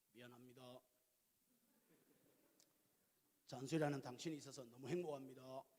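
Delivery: soft humble apology. Retold or imitated. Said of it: "이렇게 하고 채워요".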